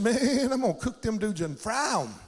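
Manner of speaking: imitating a Southern local; lightly mimicked Southern stranger; real Southern accent. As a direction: stretch out "man" like a Southern good old boy. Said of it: "He had a real southern accent".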